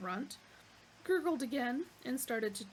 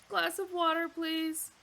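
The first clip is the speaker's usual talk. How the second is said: firm order; 7 semitones higher, 7 dB louder than usual. Acted. Arthur orders.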